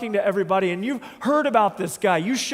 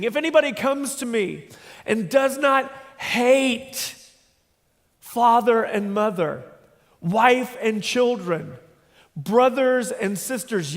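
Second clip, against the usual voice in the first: slow, weighty reading with pauses between pairs; solemn scripture reading; slower than usual. Acted. Preacher reading Jesus' hard words to the congregation, slow and solemn. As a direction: read each pair slowly and let it land. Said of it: "this is Jesus speaking".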